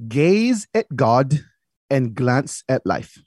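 put-on very slow saying in dad's Fermin accent. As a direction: quote dad's motto slowly, lightly in his Fermin accent. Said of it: "throw my Fermin accent on".

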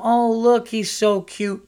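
high, loud gushing over a pet; high mock girlish gush; cute little girl voice. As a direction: squeal like a kid seeing a cute hamster. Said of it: "She went from".

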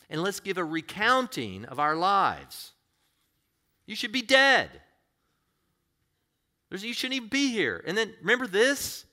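high, loud voice of God calling out; booming divine plea, urgent; God pleading, loud. Acted. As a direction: cry out as God calling his people home. Voicing God calling people back.

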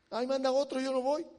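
lightly acted rebel; rebellious refusal. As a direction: play a stubborn prophet digging in. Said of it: "Jonás el rebelde".

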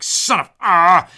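loud, slow, high strangled curse; mock cursing. Brother cursing at being stumped, loud slow mock curse. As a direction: bite off a frustrated swear. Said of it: "he's like".

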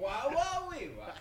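glitchy robot, squeaky and stuttering; malfunctioning robot noises; short-circuiting robot. Pretend. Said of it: "he's short circuiting".

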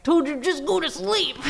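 put-on high voice; hammed-up high-pitched urging; imitated movie buddy. Pod buddy urging him to sleep, mock high voice. Mimicking the buddy's line, laughing after.

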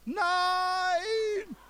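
a sudden panicked outburst of refusal; loud scream. Retold or imitated. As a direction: scream it out in front of everyone. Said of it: "ich hab ganz laut geschrien".

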